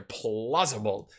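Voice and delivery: plausible said low, soft and drawn out; stressing plausible. Shown as a demonstration. Singling out a suspicious word to chat, plausible slow and low. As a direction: lean slowly and quietly into plausible. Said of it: "Ooh, that word right there".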